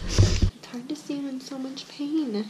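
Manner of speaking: slow, choked-up words through real tears; real crying. Real, not acted. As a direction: let the tears slow you down. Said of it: "Now that I cried".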